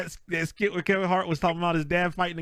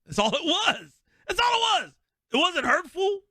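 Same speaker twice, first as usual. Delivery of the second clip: mock high voice; 13 semitones higher than usual. Mocking the people piling on.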